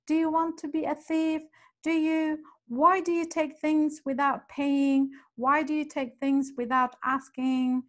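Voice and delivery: scolding her daughter, hammed up as a retold shout; imitating a shouting mother. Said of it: "started shouting, yelling".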